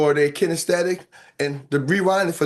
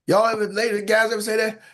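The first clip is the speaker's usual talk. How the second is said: ordinary talk, nothing marked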